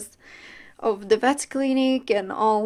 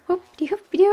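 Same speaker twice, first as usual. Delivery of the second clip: playful singsong; 7 semitones higher, 3 dB louder than usual. Real, not acted. Playful sound for pet.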